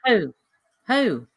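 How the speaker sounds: short mock owl hoots. Co-host hears there's an owl, hooting. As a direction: hoot it like an owl. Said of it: "There's an owl".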